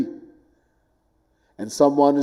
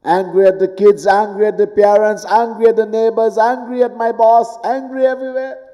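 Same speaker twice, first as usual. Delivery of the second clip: "angry" climbing higher each time; building list; 6 semitones higher than usual. Acted. Preacher lists everyone we snap at, climbing higher. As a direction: pile up the angers, rising.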